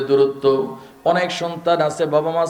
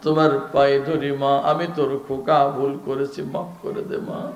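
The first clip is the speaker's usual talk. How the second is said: son begging forgiveness; slower than usual. Acted. Son calling to his mother from afar, begging forgiveness. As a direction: beg your mother's forgiveness, fading off. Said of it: "সন্তান দূর থেকে বলে".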